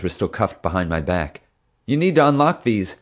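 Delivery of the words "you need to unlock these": raised, higher-pitched urgent call; a mild yell for help. A narrator's reading. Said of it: "I yelled".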